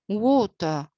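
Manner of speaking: "water" with the final R dropped; non-rhotic British water. Shown as a demonstration. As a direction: say "water" as "waw-tuh", British style. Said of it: "without pronouncing the R sound according to the British".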